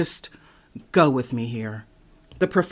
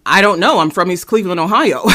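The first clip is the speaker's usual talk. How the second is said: deadpan comeback; 3 semitones higher, 4 dB louder, faster than usual. Retold or imitated. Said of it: "I looked at him dead in his face and I said".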